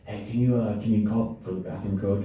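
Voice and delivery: soft, sheepish ask; shady mumble. Retold or imitated. A shady customer asking the clerk, quietly. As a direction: mumble it like you hope nobody notices. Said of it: "and he goes".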